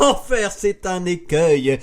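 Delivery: high cry of alarm, easing downward; dismayed lookout's cry. A narrator's reading. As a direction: call out the danger from aloft, pitch coming down. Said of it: "Une voix de la hune ardente et folle crie".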